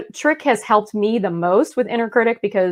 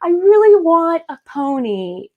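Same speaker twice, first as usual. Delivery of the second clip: put-on much higher, whiny kid voice; pleading child; 8 semitones higher, slower than usual. Child begging mom for a pony, whiny. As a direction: beg like a kid who wants a pony. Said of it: "when they're like".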